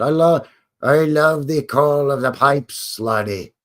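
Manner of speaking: slow, drawn-out mock Scottish accent; bad Scottish accent. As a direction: put on a clumsy Scottish brogue. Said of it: "That's the worst Scottish accent".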